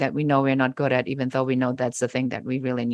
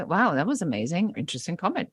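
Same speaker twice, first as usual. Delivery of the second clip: sarcastic brush-off; 2 semitones higher, 4 dB quieter, faster than usual. Pretend. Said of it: "And you say".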